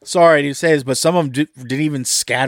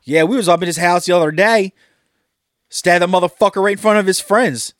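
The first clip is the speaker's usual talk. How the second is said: quoting the rapsters; 5 semitones higher, 4 dB louder than usual. Retold or imitated. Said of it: "They're like".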